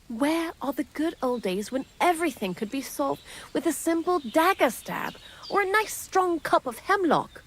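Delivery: lightly voiced old crone, rising high; wistful hint of a cackling hag. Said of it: "I sound like an old crone now".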